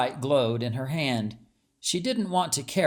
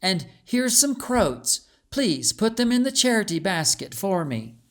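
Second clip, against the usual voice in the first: princess instructing; 6 semitones higher than usual. A narrator's reading. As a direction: hand over the task kindly but firmly. Beatrice instructs her maid.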